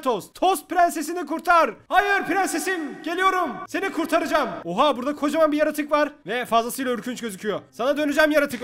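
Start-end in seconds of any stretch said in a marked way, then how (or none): 0.3-4.5 heroic rallying cry. Pretend. Heroic rescue of toast princess.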